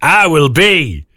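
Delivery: put-on weird English accent. Mock English accent for the Star Camp game. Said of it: "you don't have to do it in a weird English accent".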